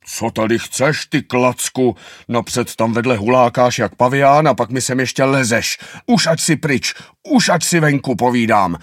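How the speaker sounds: grumpy turtle chasing the anteater away; turtle scolding. Acted. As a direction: snap at the little pest to get out. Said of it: "želva nadává a křičí".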